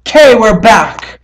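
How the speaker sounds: high, loud, drawn-out welcome back; upbeat announcement. Real, not acted. Host back after stopping the video, upbeat announcement. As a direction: sing it out to greet viewers.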